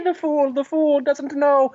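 high, slow tittering voice; drawn-out mocking giggle; giggling emperor.

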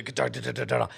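low rapid rattle by mouth; imitated scrabbling. Man imitating what they hear in the chimney, low scrabbling rattle. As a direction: rattle off a clattering noise. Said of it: "And so we, we hear the".

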